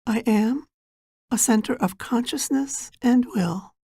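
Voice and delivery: measured meditation guide, long pauses between phrases; guided meditation. Acted. Guide preparing listeners for an inner journey, guided meditation. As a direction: guide them gently inward, phrase by unhurried phrase.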